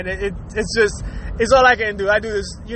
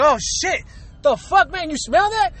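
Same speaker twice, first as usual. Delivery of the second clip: higher-pitched mock disbelief; feigned surprise; 4 semitones higher than usual. Culprit fooling the newcomer about the smell, feigned surprise. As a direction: act innocent, pitch climbing as you question. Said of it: "you start playing that shit out".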